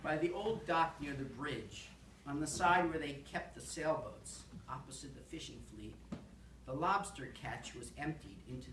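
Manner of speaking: deliberate narrative poem recital; poem reading. Acted. Poet reading a lobster poem to an audience, deliberate. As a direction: read it line by line with rises and falls. Reads own poem aloud.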